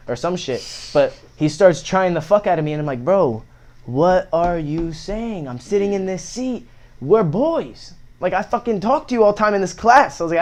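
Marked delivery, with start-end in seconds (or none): 3.0-10.2 mock-hurt appeal to a classmate; indignant protest. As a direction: protest like you can't believe he's doing this. Retold protest to bully.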